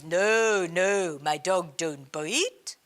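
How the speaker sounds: put-on slow, light French accent for the dog owner; the man answers in a mock French accent. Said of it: "my Indian version of a French accent".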